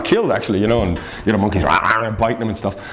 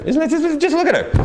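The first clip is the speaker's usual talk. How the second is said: laughing; 14 semitones higher than usual. Real, not acted. Urges viewers at weird picture.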